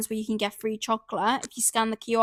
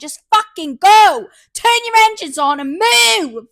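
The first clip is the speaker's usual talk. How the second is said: wound-up rant; 2 semitones higher, 6 dB louder than usual. Retold or imitated. Driver ranting at traffic, building to angry shout. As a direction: rant yourself into a fury. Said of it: "I'm getting wound up about it again".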